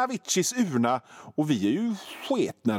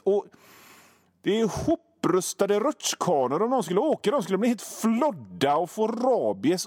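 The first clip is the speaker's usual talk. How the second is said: ordinary talk, nothing marked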